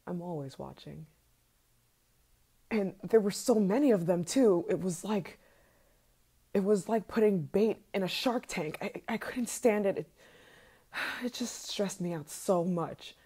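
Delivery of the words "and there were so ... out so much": louder, faster, agitated venting; rising anger. Acted. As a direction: let the jealous rage boil over. Obsessive rant boiling into rage.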